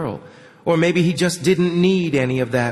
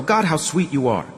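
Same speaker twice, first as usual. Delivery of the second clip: normal talking voice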